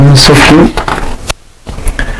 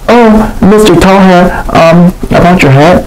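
hesitant J J; 7 semitones higher than usual. Acted. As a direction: stall nervously before confessing. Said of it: "Hesitant, J J".

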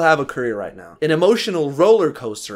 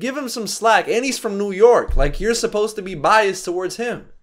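mock indignation; 6 semitones higher than usual. Real, not acted. Scolding Flex for no bias.

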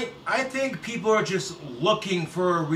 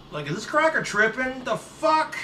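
mock outrage; 7 semitones higher than usual. Mocking outraged reaction voice.

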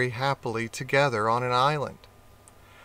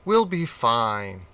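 slow, lower reassurance; reassuring; 3 semitones lower, slower than usual. Acted. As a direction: soothe the worried cat. Rat reassuring cat.

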